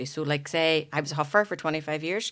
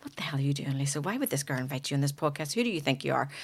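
inner critic voice; 5 dB quieter than usual. Retold or imitated. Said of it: "your automatic negative thoughts say things".

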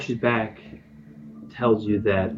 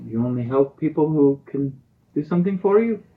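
lightly voiced old lady, higher pitched; old village lady; 5 semitones higher than usual. Old lady pleading her worth to travellers, lightly higher voice. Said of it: "this old lady seems to have".

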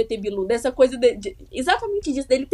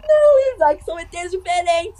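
exasperated; 3 semitones higher than usual. Real, not acted. Exasperated at his mix-up.

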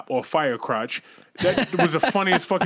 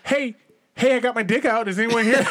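mock calling out; 5 semitones higher than usual. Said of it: "teen calling through empty house".

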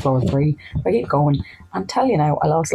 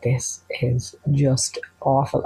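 slow dread; much slower than usual. Retold or imitated. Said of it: "I was like".

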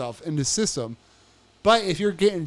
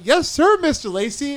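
deferential guard; 9 semitones higher, 4 dB louder than usual. Retold or imitated. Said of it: "the guard was like".

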